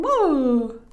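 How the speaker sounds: high, loud cry of alarm; frightened whoa. Acted. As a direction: yell like a startled boy. Boy jumps out in fright.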